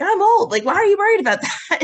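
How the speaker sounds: high, loud, fast laughing protest. Retold or imitated. To her mother, a high laughing protest. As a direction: squeal it out between laughs.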